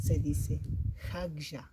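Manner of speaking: Se dice jagya said loudly and slowly, teaching the word jagya; loud, slow teacher's answer. Shown as a demonstration. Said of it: "Cómo se dice cara o mejilla".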